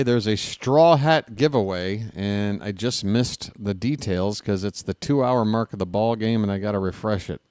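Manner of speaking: ordinary talk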